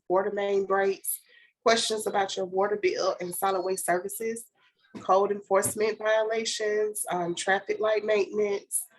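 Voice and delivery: hoarse from a cold; talking through a sore throat; sick voice. Real, not acted. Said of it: "excuse my voice, I'm a little sick".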